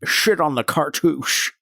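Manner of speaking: "Shit" with a slushy sh in place of s; slurred Sean Connery. Pretend. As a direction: say "Shit on the cartouche" with a Connery lisp. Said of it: "it sounds like I was saying, "Sit on the cartouche".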